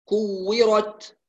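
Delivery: very slow كورت ending in a clean ta; نطق صحيح بطيء; correct ta. Shown as a demonstration. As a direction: stretch كورت, ta stopped cleanly. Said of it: "هكذا".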